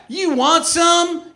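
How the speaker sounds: slow, high, loud wrestler taunt; professional wrestler. Acted. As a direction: challenge like a hammed-up pro wrestler. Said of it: "Like a professional wrestler".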